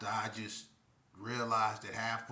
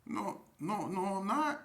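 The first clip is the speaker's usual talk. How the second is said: panicked denial; 8 semitones higher than usual. Retold or imitated.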